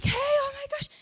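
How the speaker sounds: very high, gushing hello; gushing greeting. Retold or imitated. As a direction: gush it with delight. Boyfriend excited greeting.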